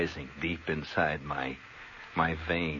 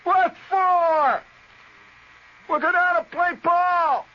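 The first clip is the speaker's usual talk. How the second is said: high, loud, slow yard call; buddy hollering back; 8 dB louder, much slower than usual. Retold or imitated. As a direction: call him out to play ball. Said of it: "You holler from inside the house".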